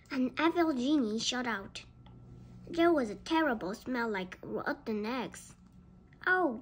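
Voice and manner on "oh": higher, louder narrated gasp; a storybook gasp of shock. A narrator's reading. Biff seeing the evil genie appear, gasping. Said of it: "gasped Biff".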